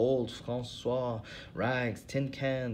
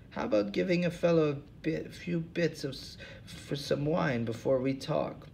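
put-on old hobo, voice pitched well up; 5 semitones higher than usual. Hobo Lou Jenkins to the interviewers, in a high put-on voice. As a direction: play the suspicious bum, pitched high.

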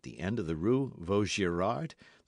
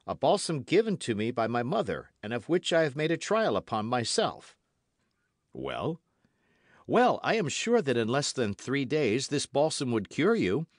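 put-on higher-pitched, eager young Gascon voice; earnest young D'Artagnan; 5 semitones higher, 3 dB louder than usual. Young Gascon offers Athos his balsam, earnest and eager. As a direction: make the offer in a higher, lively voice.

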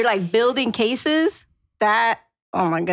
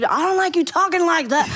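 raised voice; 7 semitones higher than usual. Retold or imitated. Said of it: "Why are you yelling?".

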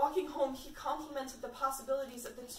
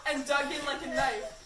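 laughing while reading; 3 dB louder than usual. Real, not acted.

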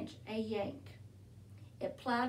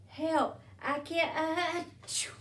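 higher cry for help, breaking into a sneeze; panicked Platypus; 5 semitones higher than usual. A narrator's reading. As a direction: call for help and end in an acted sneeze. Platypus calls for help, then sneezes.

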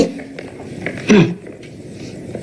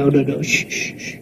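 soft, lower shushing; hushed soothing; 7 semitones lower, 10 dB quieter than usual. Acted. Parent calms frightened Didi, hushed soothing. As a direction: settle a crying child gently.

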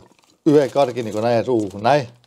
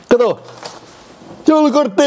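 surprised; 12 semitones higher than usual. Real, not acted. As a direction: call out the find in sudden surprise. Surprised find of old card.

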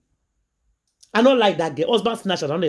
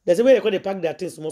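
ordinary talk, nothing marked

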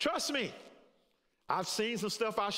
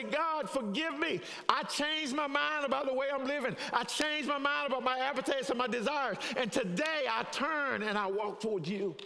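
model prayer; 2 semitones higher than usual. Acted. Preacher voicing a sample prayer for listeners, earnest. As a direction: lead the congregation in an earnest repentance prayer. Leads congregation in repentance prayer.

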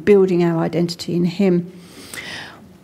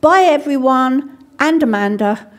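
put-on a playful family farewell that picks one child out; teasing relatives; 4 semitones higher than usual. Relatives teasing the odd child with a pointed goodbye. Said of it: "They'd say".

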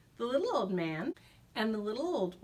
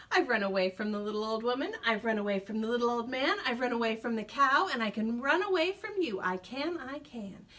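taunting gingerbread man. Acted.

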